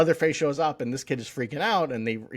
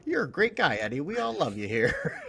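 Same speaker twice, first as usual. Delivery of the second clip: lightly voiced doting nurse, lifted pitch; a hint of a gushing caregiver, pitched up; 5 semitones higher than usual. Imitating nurses fussing over a patient at the home, lightly gushing. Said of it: "all the nurses at the".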